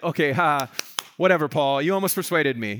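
dismissive brush-off. Acted. Proud Agrippa brushing off Paul's questioning, dismissive. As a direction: wave him off with a scoff. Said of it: "maybe it was more of like".

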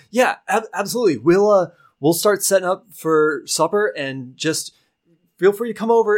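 put-on a green young adventurer addressing a stranger; young knight's voice. Young adventurer greets the party, high and eager. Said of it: "he goes".

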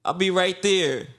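work voice. Shown as a demonstration. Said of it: "Will, will you model that for us".

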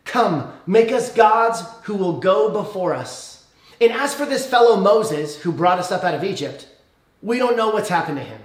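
reading the people's demand. Retold or imitated. Preacher reads the Israelites demanding gods. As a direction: read the crowd's words out formally. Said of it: "and they say this".

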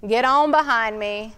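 light, teasing, offhand rebuke; joking manner. Shown as a demonstration. Preacher imagining Jesus joking with Peter, lightly teasing. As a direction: toss it off as a friendly joke. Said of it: "Did he say it in a joking manner".

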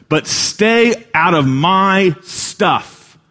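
high, slow, guarded; a mocking slow warning; mock ruler's warning. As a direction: stay out of my stuff. Voicing rich young ruler.

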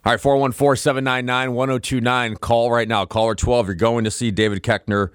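upbeat radio contest read; radio contest promo. Acted. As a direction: announce it like a DJ promo.

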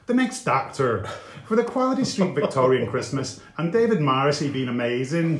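hammed-up Northern Irish read with a laugh; Northern Irish accent. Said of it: "that's not going to stop me giving him one now".

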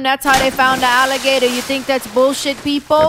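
rising conspiracy rant to the crowd; mock conspiracy rant. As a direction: preach it like a conspiracy nut. Mock conspiracy preaching to audience.

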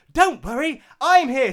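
high, bright heroine voice; heroic arrival. Acted. Heroine bursting in to save the day. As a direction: announce rescue with gusto.

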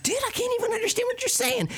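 high garbled voice, like talking through water; underwater voice. Retold or imitated. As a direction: burble the words as if submerged. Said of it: "talented at speaking underwater voice".

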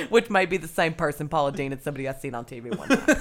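put-on jokey Southern accent, running quickly; mock Southern woman. Joking about who she copies, hammed-up Southern accent. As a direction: keep up the put-on Southern twang. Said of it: "like, a mix between my dad's first cousin".

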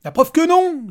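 screamed, very high and loud; yelled. Acted. Father screams at the robot, furious. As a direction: scream the retort. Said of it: "Hurla Petri".

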